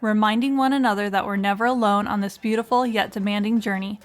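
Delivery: polished, upbeat host read over music; smooth scripted show opener; podcast intro read. Acted. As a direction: welcome listeners like a radio host opening the show.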